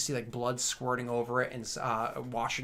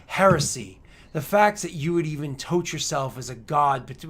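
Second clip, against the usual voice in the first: defiant retort; 2 semitones higher, 8 dB louder than usual. Acted. Accuser defies the emperor.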